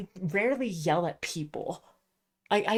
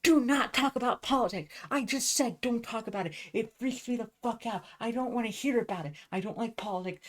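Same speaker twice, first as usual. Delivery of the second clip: re-enacted scolding at a higher pitch, stopping short of screaming; retold angry outburst; 4 semitones higher than usual. Retelling blowing up at friends over politics, exasperated mock yell. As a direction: vent it like an exasperated telling-off. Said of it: "I fucking scream at them".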